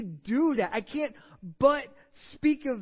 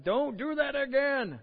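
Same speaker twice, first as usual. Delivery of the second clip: odd strained high voice for the priests; a strange silly voice, slowly; weird put-on voice; 7 semitones higher, slower than usual. Pastor mocks the priests' feeble warning in a weird voice. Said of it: "What was that voice? That was a weird one".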